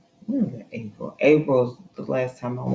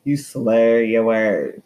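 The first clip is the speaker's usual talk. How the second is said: slow teasing retort; 3 semitones lower, 4 dB louder, slower than usual. Real, not acted. Teasing back about his speech.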